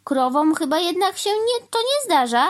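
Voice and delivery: high, loud self-reassurance; talking to himself. A narrator's reading. Crow blocking his ears and talking to himself, high fretting. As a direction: fret aloud to yourself, pitched high. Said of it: "powiedział do siebie pan Wrona".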